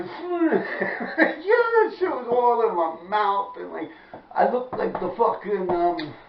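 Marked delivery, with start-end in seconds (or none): 0.0-3.5 slow words through a laugh; laugh-crying as he says it. Real, not acted. Retelling the mud fall to viewers, slow laughing.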